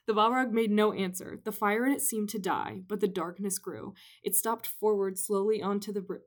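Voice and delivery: lightly dramatic book reading; story reading. Acted. Reads the passage aloud.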